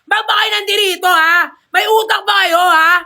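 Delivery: furious mock yelling at teammates; mock gamer rage. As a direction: blow up at teammates after a loss. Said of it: "Pag natalo".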